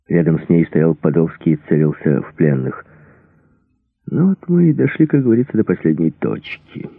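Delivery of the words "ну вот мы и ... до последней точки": mild fright, starting high and sinking; trembling voice. A narrator's reading. Cornered Подольский to Рэмбо while aiming at prisoners, voice trembling. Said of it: "голос дрожал".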